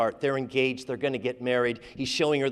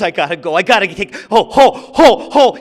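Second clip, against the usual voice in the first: choked up; 4 semitones higher, 11 dB louder than usual. Acted. Tears start welling up.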